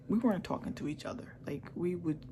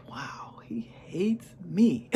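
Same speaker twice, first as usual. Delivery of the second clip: whispered realization; 4 dB louder, much slower than usual. Retold or imitated. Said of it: "I'm like".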